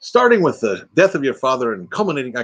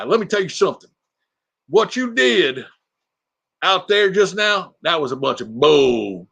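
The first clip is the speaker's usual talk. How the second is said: sergeant Larry; 6 semitones higher than usual. Retold or imitated. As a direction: pitch up and lecture like a buddy cop. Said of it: "That's the sergeant talking to him".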